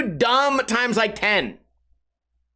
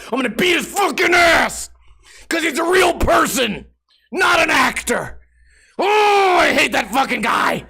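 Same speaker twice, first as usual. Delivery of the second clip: mock enraged fan; 2 semitones higher than usual. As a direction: play a furious dumb viewer, way over the top. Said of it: "They'd be like".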